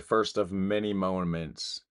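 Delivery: "First of many moments" said slowly with weight on "First"; slow pointed quote. Retold or imitated. Reacting to the clip, repeating "First of many moments" slowly and pointedly. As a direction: savour each word, leaning on "First". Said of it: "She said".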